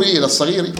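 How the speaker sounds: "الصغير" ending in a long i; kasra rhyme ending. Shown as a demonstration. Teacher matching the rhyme for students, "الصغير" ending in i. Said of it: "أي مكسورة".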